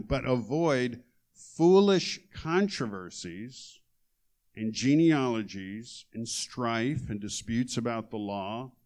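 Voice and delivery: measured reading of the verses; scripture reading. Acted. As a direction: read it out with weight. Reads scripture aloud.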